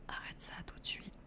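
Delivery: very soft French whisper. Pretend. Streamer giving viewers a mock order in ASMR, whispered. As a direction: whisper the order under your breath, no voice. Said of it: "Je murmure en français".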